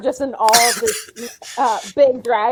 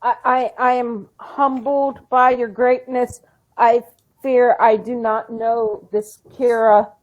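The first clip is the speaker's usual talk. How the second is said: awkward. Acted. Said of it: "I'm kind of saying it awkwardly".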